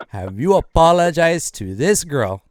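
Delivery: slow, deliberate interrogation; scolding mom. Acted. Mom asking son about apologizing to the girl, scolding.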